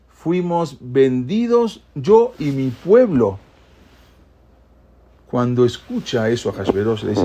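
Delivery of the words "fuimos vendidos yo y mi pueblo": slow, heavy, drawn-out confession; grave lament. Acted. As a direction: let each word weigh, slowly. Esther reveals her plight.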